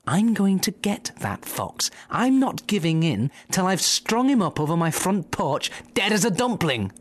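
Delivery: high, vengeful farmer's voice; a farmer swearing revenge, pitched high; angry farmer. Acted. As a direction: spit out the threat like a spiteful farmer.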